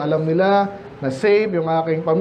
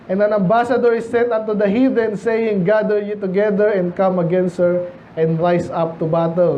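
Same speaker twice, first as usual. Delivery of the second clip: slow, deliberate Bible reading; scripture reading; slower than usual. Acted. Preacher reading verse to the congregation, slow and solemn. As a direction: read the verse slowly and solemnly.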